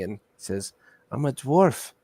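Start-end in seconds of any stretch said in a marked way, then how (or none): 1.1-1.9 sarcastic dwarf, slow and put-on; surly, sarcastic dwarf; not-nice dwarf voice. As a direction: drag it out with mean sarcasm. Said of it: "this not nice voice".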